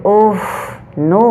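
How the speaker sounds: exclaimed oh. Shown as a demonstration. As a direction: gasp out the oh in alarm. Demonstrating an exclamation. (ऊँची और ज़ोरदार चौंकी हुई ओह)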